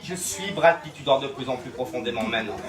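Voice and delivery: low, soft trance-inducing delivery; hypnotic suggestion. Acted. Hypnotist sends volunteer into deep sleep, hypnotic and soft.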